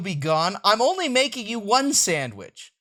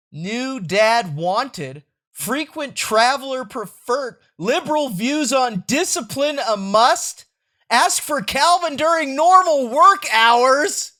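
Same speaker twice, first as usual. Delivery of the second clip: loud announcer voice; hammed-up classified ad; mock ad read; 5 semitones higher, 7 dB louder, slower than usual. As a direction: read it like a radio ad. Reading out a mock ad.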